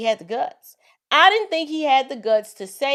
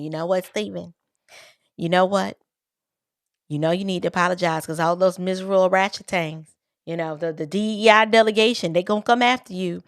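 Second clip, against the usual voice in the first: lightly put-on southern drawl, quick and a bit lower; mock Southern voice rattling off advice fast; hint of a Southern accent, hurried and coaxing; Mickey Mouse southern drawl; 3 semitones lower, faster than usual. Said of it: "Mickey Mouse with a southern drawl".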